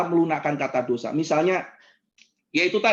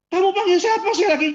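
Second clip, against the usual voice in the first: much higher, outraged question; acted anger; 11 semitones higher, 4 dB louder than usual. Congregant challenges the preacher after a second insult, acted anger. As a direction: act out rising indignation at being insulted. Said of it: "Oh, dia marah gitu kan ya".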